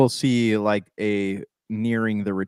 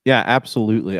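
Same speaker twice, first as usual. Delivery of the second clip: talking while crunching; words through a mouthful of chips; 6 dB louder than usual. Real, not acted. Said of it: "I'm crunching right now".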